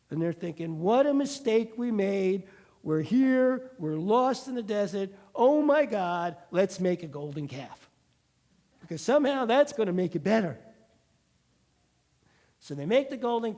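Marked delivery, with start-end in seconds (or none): 0.8-10.6 louder mock panic; mock desperation. Israelites lost in the desert, loud mock despair. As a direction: moan loudly like a frightened crowd.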